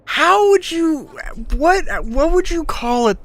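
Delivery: squeaky high voice. Pretend.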